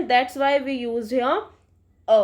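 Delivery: slow, deliberate rule; slow emphasis. Shown as a demonstration. Teacher explaining the article to students, slow. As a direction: lay it out word by word. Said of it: "rule spoken for students".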